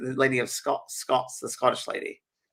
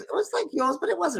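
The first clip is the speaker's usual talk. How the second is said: very high Scottish impression; Scottish accent. Scottish lady describes the hospital to researchers, high Scottish accent. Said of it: "I'm trying to my Scottish accent".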